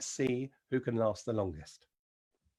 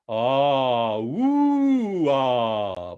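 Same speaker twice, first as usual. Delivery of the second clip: head voice slide; 8 dB louder, much slower than usual. Shown as a demonstration. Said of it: "get our head voice going".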